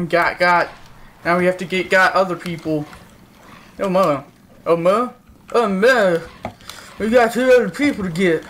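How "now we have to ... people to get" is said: numb mouth, slurred words; words slurring through a numb mouth; numb from the dentist. Real, not acted. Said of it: "My mouth doesn't work today".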